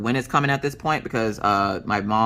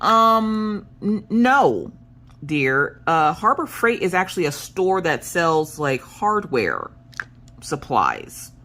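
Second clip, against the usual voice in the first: mock patient explaining; 5 semitones higher, slower than usual. Patiently explaining the store to husband.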